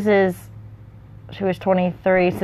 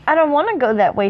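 a touch of timid reluctance, higher; a child lightly voiced as nervous; quivering reluctance; 8 semitones higher than usual. A narrator's reading. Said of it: "said Frodo quiveringly".

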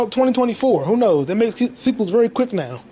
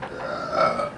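low, rumbling burp; 8 dB quieter than usual. Real, not acted. Man pausing mid-rave, low burp. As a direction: let a low burp slip out. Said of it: "I burped".

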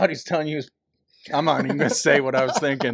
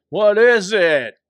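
slow mock confused old man; 3 semitones higher, 6 dB louder, slower than usual. Confused president asks.

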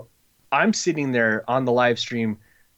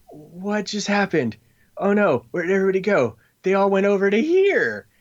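mock panic; 7 semitones higher than usual. Retold panic as sales vanished.

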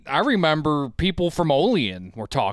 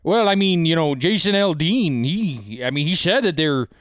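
imitated northern, Canadian-sounding local accent. Imitating locals talking about a singer, Canadian accent. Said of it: "you're doing a Canadian accent".

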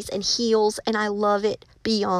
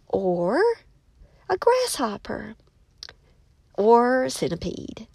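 breathy whispered aside. Real, not acted. Musing to viewers about the next insect, whispered. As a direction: whisper it like a secret idea.

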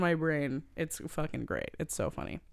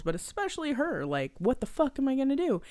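mock panic; 8 semitones higher than usual. Voicing nervous Channing.

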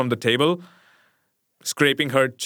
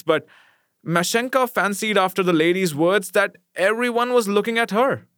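ordinary delivery

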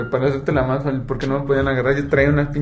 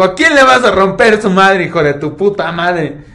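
louder, slow menacing confrontation; angry challenge; 3 semitones higher, 5 dB louder, slower than usual. Retold or imitated. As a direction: square up and challenge him. Confronta al amigo que amenaza. (retando furioso, en voz más alta)

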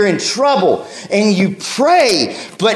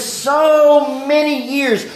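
slow mournful lament; 3 semitones higher, much slower than usual. Retold or imitated. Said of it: "And Hannah cries".

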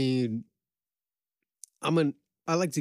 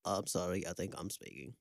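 nerdy voice; 5 semitones lower, 11 dB quieter than usual. Retold or imitated. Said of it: "the nerdy voice would be like".

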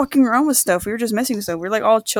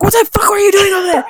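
higher, sharper mock scolding mom; 10 semitones higher, 4 dB louder than usual. Mom scolding her kid from the car, mock yell. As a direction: snap at your kid like an angry mom. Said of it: "then she's like".

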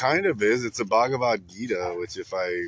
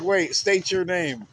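high, drawn-out guard's challenge; mock sentry challenge; 11 semitones higher, much slower than usual. Chickens questioning a cat in a hat, mock sentry challenge. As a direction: play a suspicious coop guard, slow and high.

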